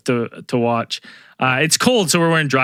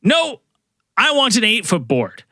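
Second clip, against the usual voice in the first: high, indignant no; a touch of cocky stubbornness; mock stubborn insistence; 6 semitones higher than usual. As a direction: insist like a know-it-all beginner. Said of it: "he goes".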